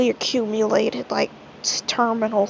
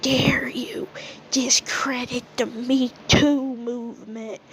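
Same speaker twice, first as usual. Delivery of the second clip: mock outrage; slower than usual. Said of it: "she's like".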